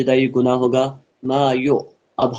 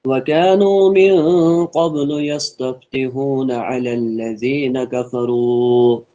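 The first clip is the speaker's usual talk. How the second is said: Quran recitation; slower than usual. Acted. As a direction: chant the verse slowly.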